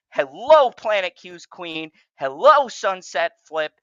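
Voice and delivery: loud, bright hello to the chat names; loud greeting. Real, not acted. Host breaking the rant to greet chat viewers loudly. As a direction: call out to the viewers.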